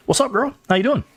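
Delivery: excited greeting. Real, not acted. Greeting co-host high and excited.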